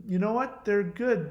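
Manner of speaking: put-on tactful husband; feigned tact. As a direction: lift the pitch as if carefully sparing feelings. Tactful answer to wife.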